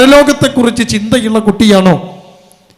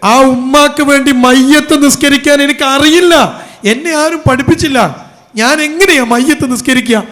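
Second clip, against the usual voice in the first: distraught daughter; 4 semitones higher than usual. Retold or imitated. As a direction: voice the grieving daughter's desperate questions, raised and urgent. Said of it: "പൊട്ടിക്കരയാണ് ഈ കുട്ടി".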